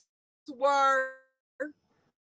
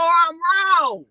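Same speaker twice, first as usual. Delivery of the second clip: admitting fault; 2 semitones higher, 5 dB louder than usual. Retold or imitated. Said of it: "Sometimes you just have to say".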